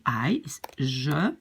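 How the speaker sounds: slow unvoiced whisper; whispered aside. Real, not acted. Teacher whispering that I is je. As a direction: whisper the word slowly.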